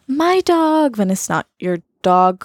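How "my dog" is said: American "my dog". Shown as a demonstration. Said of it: "In den U S A ist es normal zu sagen".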